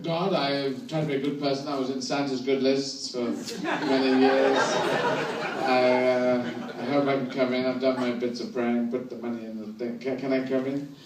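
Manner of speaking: meek, quiet plea at heaven's gate; timid pleading. Retold or imitated. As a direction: softly beg God to let you in. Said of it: "you might get up there and go".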